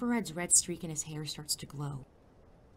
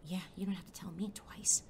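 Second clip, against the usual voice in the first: whispered aside; 5 dB quieter than usual. Acted. Hiding sidekick agrees quietly.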